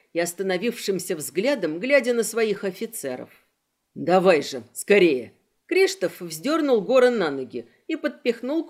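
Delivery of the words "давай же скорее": louder, urgent call to hurry; urgent yell in the middle of a fight; urgent shout. Acted. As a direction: shout him up onto his feet. Urging a companion mid-fight.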